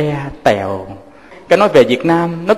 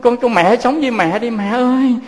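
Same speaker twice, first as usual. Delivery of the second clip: put-on crying child; 6 semitones higher than usual. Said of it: "Nó khóc quá trời".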